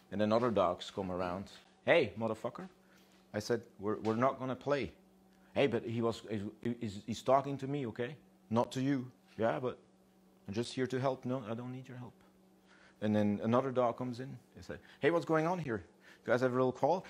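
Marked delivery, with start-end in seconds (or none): 1.8-12.1 higher-pitched, indignant back-and-forth; mock bickering. Dogs bickering in acted quarrel. 15.0-17.0 high-pitched newcomer butting in; nosy interjection. Acted. Newcomer dog butting into quarrel.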